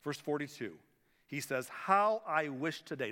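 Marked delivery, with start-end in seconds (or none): 1.7-3.1 slow, grieving plea; grieving Jesus. Retold or imitated. Preacher voicing Jesus weeping over the city, slow and sad. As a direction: draw it out like a heartbroken lament. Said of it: "don't miss this tone here".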